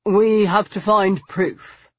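flat emotionless human. Acted. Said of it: "Stoker said flatly".

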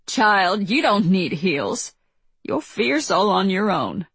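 put-on slow, sassy older lady voice; drawn out with sass and warmth; sassy older woman. Lee speaks, far and slow.

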